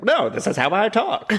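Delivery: laughing quote. Retold or imitated. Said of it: "people were like".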